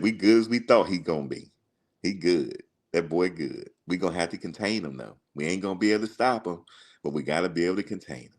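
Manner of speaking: quick, lightly imitated country accent; a country coach talking through his worry, fast; put-on country accent, hurried toward the end; Coach Bowden. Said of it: "he had the real country accent".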